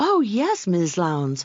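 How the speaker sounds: imitated, super friendly purring voice. Retelling how the employee answers the phone, imitating a super friendly purr. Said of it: "becomes super friendly. ... he or she purrs".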